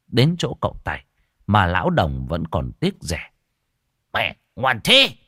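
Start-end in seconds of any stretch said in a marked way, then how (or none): 4.1-5.2 slow, drawn-out, relishing "ngoan thế" with a rise on "thế"; lecherous delight. Acted. Old man drooling over the show, slow relishing rise. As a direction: savour "ngoan thế", stretching it.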